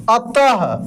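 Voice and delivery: अतः with a final breathy h; visarga ending. Shown as a demonstration. Teacher demonstrates visarga to the class, ending अतः on a breathy ah. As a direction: finish अतः on an aspirated 'ah'. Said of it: "अह के जैसे".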